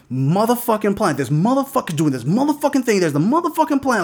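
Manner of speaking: grumbling tirade climbing in pitch; ranting. Retold or imitated. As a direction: rant on the swear word, without shouting. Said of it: "when I went on the rant".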